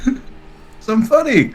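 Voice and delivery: milk the joke, stretching it out; drawn-out comeback. Real, not acted. Guest repeats his joke to the host, drawn out.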